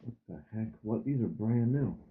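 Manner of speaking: muffled, far from the phone. Real, not acted. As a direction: speak through a muffled mic. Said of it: "it's really muffled".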